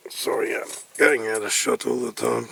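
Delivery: whispered apology. Real, not acted. Whispered aside while filming.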